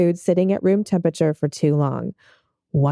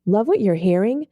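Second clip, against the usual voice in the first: scripted call for reviews; podcast outro read. Acted. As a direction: read it as a show promo to listeners. Reads the show's outro.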